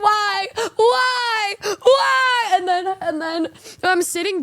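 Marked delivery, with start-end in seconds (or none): 0.0-2.5 each why climbing higher; building from frustrated to squealing; rising exasperation. Retold or imitated. Rising exasperated repeated whys.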